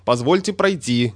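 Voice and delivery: plain reading voice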